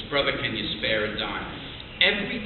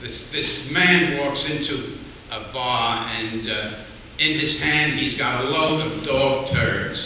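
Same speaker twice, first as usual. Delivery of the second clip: retold louder so the room hears; louder into the mic; slower than usual. Real, not acted. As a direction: lean into the microphone and push. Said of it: "Into the microphone".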